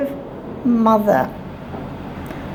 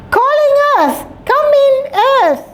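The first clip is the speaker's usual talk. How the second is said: yelling out; 12 semitones higher, faster than usual. Acted. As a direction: shout the name into the waiting room. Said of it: "and yells".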